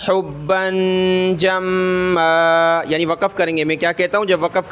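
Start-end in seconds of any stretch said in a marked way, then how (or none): 0.1-2.8 Quran recitation. Shown as a demonstration. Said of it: "یہ لفظ ہے".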